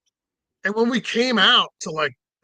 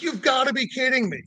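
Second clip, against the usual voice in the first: high-pitched retold disbelief; incredulous; 7 semitones higher than usual. Driver reacting to cop's retort, incredulous.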